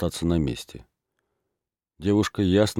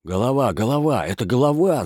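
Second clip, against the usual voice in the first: higher, louder startled cry; alarmed shouting; 6 semitones higher, 3 dB louder than usual. A narrator's reading. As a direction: sound the alarm as the lads scatter. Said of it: "закричали хлопцы".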